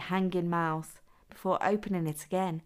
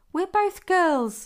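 very high pitch, almost a squeak; 11 semitones higher, 7 dB louder than usual. Told how his voice should sound, he answers in a higher-pitched, almost squeaky voice. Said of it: "he said in a higher pitched, almost squeaky voice".

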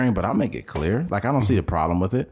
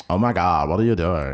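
put-on accent, low, deep and masculine; 3 semitones lower than usual. In a chat about the so-called gay accent, the speaker does a mock gay accent, masculine, deep. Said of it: "It's like a kind of masculine, deep".

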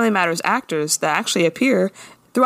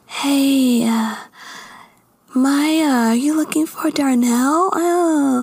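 mocking, put-on extra-fake voice, higher; 7 semitones higher than usual. Speaker mimics how a character talks to Maya, in an extra fake voice. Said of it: "she's being extra fake".

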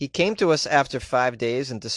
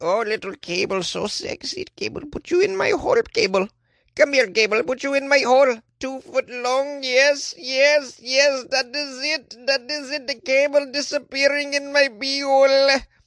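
terrible put-on Indian accent, pitched up, slow; 11 semitones higher, 4 dB louder than usual. Speaker acting out what this guy thinks about cables, in a terrible Indian accent. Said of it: "I apologize for my terrible Indian accent".

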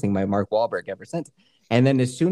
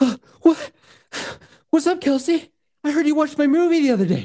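winded, very high gasping, out-of-breath voice. Pretending to call on the phone as Mark Wahlberg, out of breath. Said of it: "This is Mark Wahlberg. I'm constantly out of breath".

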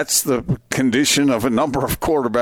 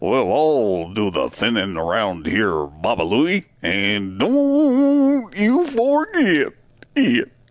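hammy, swooping put-on cartoon character voice. Asked about having the impression, performing it: Quick Draw McGraw voice. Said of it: "So you have a quick draw McGraw impression".

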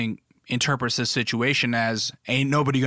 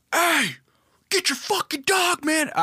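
mock shrill, very high, fully aggressive shout. Retelling a dad slash coach yelling at him over his dog, retelling a yell. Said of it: "He starts yelling".

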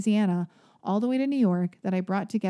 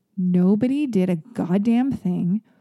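usual speaking voice

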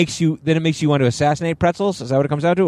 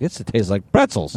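usual speaking voice

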